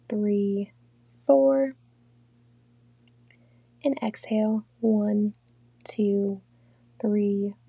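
unhurried meditation guide, long pauses between phrases; guided meditation. Real, not acted. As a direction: lead them calmly through breathing, counts evenly spaced. Leads a guided breathing meditation.

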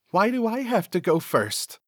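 whiny Cecil. Acted. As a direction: make him sound scared of going first. Cecil balks at going first.

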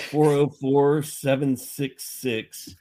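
slow, deliberate digit by digit; reading the number slowly. Real, not acted. Showing Noah the old number, read slowly digit by digit.

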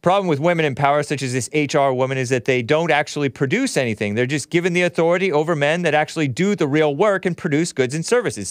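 fast, lightly voiced witch; mock witchy HR lady, rushed. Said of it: "with her witch voice".

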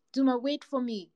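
high-pitched call after someone. A narrator's reading. Cat runs after cheetah, calling out. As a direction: call after them to wait. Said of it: "called the cat".

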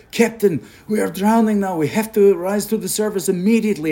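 put-on high, urgent Russian accent. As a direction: cry it out as a Russian sailor warning the captain. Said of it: "go in this Russian accent".

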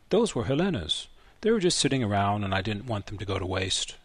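put-on gruff old man pushing the gadget away; old grandfather. Grandfather voiced in story.

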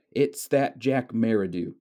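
drawn-out half-hearted attempt at a schoolboy accent; slow mock Piggy voice. Lecturer quoting Piggy to students, a lightly put-on schoolboy voice. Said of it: "Piggy's accent's probably not like that".

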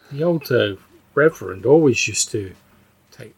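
halting, left hanging after "take"; trailing off. Acted. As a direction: lose the thread mid-sentence. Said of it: "her voice sort of, like, trails off a bit".

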